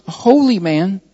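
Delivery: "holy man" slowed and set out firmly; emphasis on "holy man". Real, not acted. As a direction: lean deliberately on the words "holy man". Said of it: "few words I want to emphasize".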